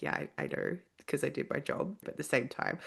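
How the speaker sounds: quiet, breathy admission said under the breath; a half-whispered yeah I know; hushed reply. Retold or imitated. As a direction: play it down softly, almost whispered. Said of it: "I was like".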